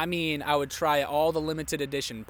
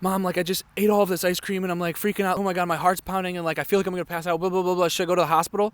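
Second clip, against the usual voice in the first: fast, higher, louder anxious rush; imitating her past self panicking on the phone; a mock freak-out, rushed and raised; retold panic; 4 semitones higher, 4 dB louder, much faster than usual. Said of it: "I call my mom and I'm, like, freaking out".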